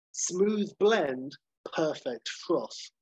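slow, savoured coffee-ad voice; slow ad read. Pretend. Final tagline read like a coffee advert. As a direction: linger on each word like an advert.

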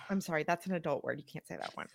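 soft, fast teacher correction; teacher mode. Retold or imitated. Mother corrects her son's swearing in teacher mode, soft and brisk. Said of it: "You went teacher mode".

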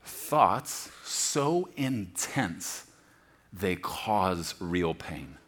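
drawn-out thoughts so intense, slow and low; slow, heavy emphasis. Shown as a demonstration. Preacher defining the word, slow and weighty. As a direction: let "so" stretch, weighty and slow. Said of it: "literally means".

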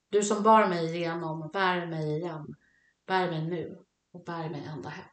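measured poetic reading with spaced phrases; lyric reading. Real, not acted. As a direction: read the lyrics aloud like a poem. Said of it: "Jag läser den".

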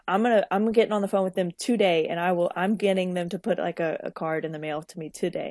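imitating someone newly determined; retold enthusiasm. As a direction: retell a client's determined resolve with some push. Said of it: "I love the enthusiasm".

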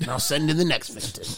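game show host. Pretend.

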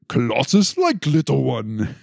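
lightly imitated stereotypical Russian accent, drawn out; slow, mock eighties Russian accent; Colossus, stereotypical Russian accent. Host mimicking Colossus's third-person talk, mock Russian accent. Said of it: "couldn't talk more stereotypical eighties Russian".

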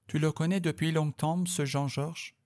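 a hint of Julie, curious and light; Julie asking. Julie asks the narrator about Jean-Georges, lightly voiced. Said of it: "Me demande-t-elle".

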